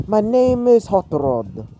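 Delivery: put-on high, slow, botched French accent; attempted French accent. Car introduces itself to its passengers, attempted French accent. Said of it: "I don't know how to do a French accent".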